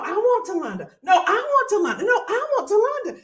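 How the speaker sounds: host laughing, insisting on wanting Talonda; laughing insistence. Real, not acted.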